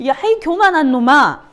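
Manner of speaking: a teacher hamming up an angry big brother; mock scolding older brother. Teacher voicing the brothers scolding Joseph, mock angry yell. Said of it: "막 이러잖아".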